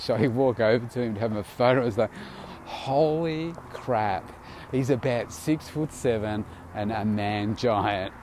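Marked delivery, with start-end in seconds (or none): 2.7-8.1 stunned. Retold or imitated. Retold reaction at photo.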